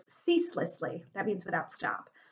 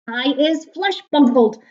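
slow, loud, raised-pitch roar; roaring giant; 5 semitones higher, 11 dB louder, slower than usual. A narrator's reading. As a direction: roar each word out slowly. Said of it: "roared the flesh lump eater".

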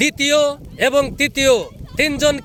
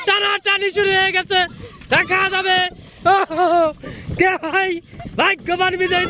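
excited commentary; 4 semitones higher than usual. Real, not acted. Live race finish commentary.

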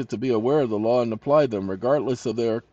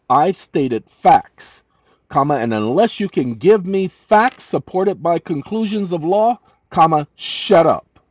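angry dictation; 4 semitones higher, 4 dB louder than usual. Real, not acted. Angrily dictating to the AI.

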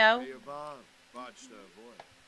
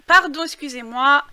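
apologizing through hiccups; interrupted by a hiccup; 3 semitones higher, 9 dB louder than usual. Real, not acted. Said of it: "J'ai le hoquet".

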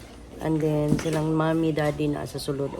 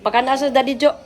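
scolding; 8 semitones higher, 5 dB louder than usual. Real, not acted. Scolding child about school. (nagbadlong sa bata)

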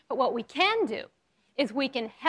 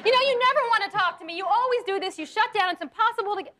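nagging wrong way; 7 semitones higher than usual. Shown as a demonstration. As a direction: pile on the blame, half-laughing. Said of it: "the right way and the wrong way".

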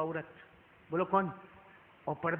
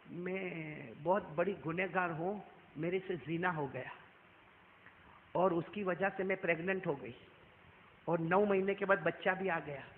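tearful confession; 2 semitones lower, 5 dB quieter than usual. Acted. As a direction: confess quietly as a sinner in tears. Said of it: "रोते रोते क्या बोली". (रोते हुए धीमी आवाज़ में इकबाल)

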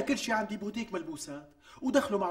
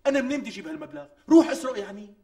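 exasperated outburst; 4 semitones higher, 7 dB louder than usual. Acted. Exasperated about the money.

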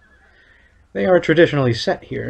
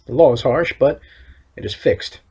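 lightly voiced stern official, measured and solemn; town overseer; 3 dB louder than usual. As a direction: read it as a proud town overseer laying down the law. Reads overseer's NPC lines.

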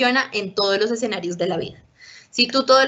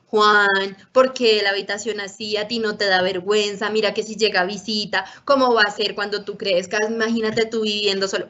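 nagging lecture. Shown as a demonstration. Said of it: "La cantaleta no sirve para nada".

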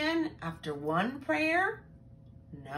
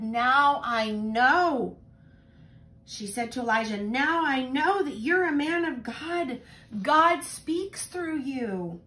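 grateful awe; 5 semitones higher, 8 dB louder than usual. Acted. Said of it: "And she said".

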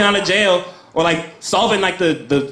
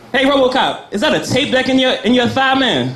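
mocking heckler; 6 semitones higher than usual. Taunting RoboCop in mock voice.

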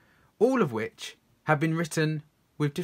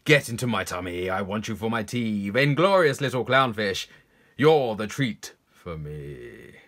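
gobble up your prey with relish; gloating predator fish; 3 semitones lower, 4 dB louder than usual. Acted. Predator gloats over its meal.

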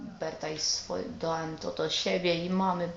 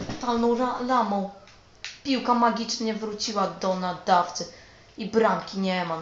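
loud, high frustrated yelling at the game; 3 semitones higher, 9 dB louder than usual. Real, not acted. Gamer yelling at the screen over a goal that vanished, frustrated. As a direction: yell it like the ball just betrayed you. Gamer fuming at missed shot.

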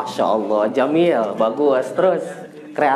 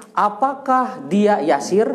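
slow model sentence; 3 semitones higher, slower than usual. Shown as a demonstration. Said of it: "Ya, bikin kalimat".

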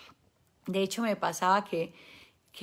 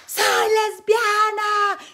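high, loud, slow proclamation; mock proud shout; 13 semitones higher, 9 dB louder, much slower than usual. Mother imitating women on stage, high loud proud cry. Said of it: "a ir a la tarima a decir".

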